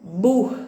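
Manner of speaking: "Bur" said alone, firmly; stressed syllable alone. Shown as a demonstration. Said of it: "Bur é a sílaba tônica". ("Bur" isolado, com firmeza)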